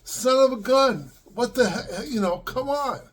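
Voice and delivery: high, loud, fed-up retold outburst at being left behind; angry outburst. Five-year-old left behind by the family, loud indignant outcry. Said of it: "I go".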